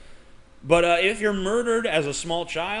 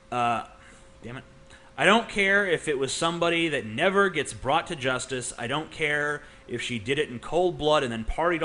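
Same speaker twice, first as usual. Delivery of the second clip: dispassionate reading. Shown as a demonstration. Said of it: "read it in a dispassionate tone of voice".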